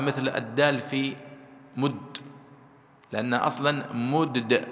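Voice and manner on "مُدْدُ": slow "مدد", first د vowelless, second released; two separate dals. Shown as a demonstration. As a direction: pull apart the doubled d in "مدد". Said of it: "الدال الأولى ... ساكنة والثانية مضمومة". (فك إدغام الدالين في "مدد")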